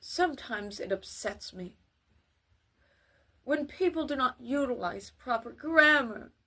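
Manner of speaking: sad, tearful demo of the line; mournful reading of a complaint; cry tone. Shown as a demonstration. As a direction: say it as if close to tears. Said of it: "You see how that was a cry tone?".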